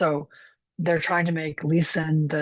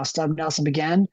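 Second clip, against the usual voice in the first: lightly voiced lumberjack narrating. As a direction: read it like a plain-spoken lumberjack. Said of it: "I read this to myself in a lumberjack voice".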